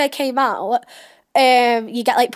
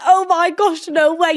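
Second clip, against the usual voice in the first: higher, drawn-in disbelief from the group; shocked reaction; 4 semitones higher, slower than usual. Retold or imitated. Housemates reacting to the flirting, shocked. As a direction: mimic an astonished crowd.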